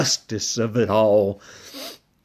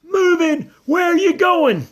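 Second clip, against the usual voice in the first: very high, worried squeaky voice; a nervous pup whispering from the door; timid little dog; 4 dB louder than usual. Acted. Drover's high character voice.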